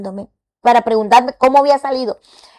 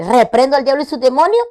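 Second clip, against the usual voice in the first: loud and higher, every word of "Reprendo al diablo" declared; firm rebuke; 5 semitones higher, 5 dB louder than usual. Retold or imitated. Woman retelling what she told her doctor, a loud firm rebuke. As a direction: rebuke the devil with force. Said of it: "Pero yo le dije".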